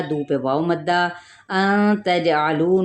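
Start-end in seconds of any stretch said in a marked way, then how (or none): 1.5-2.8 अन तजअलू with a hidden nasal nun, slow; tajweed recitation. Shown as a demonstration. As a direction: recite slowly. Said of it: "नून पे क्या है".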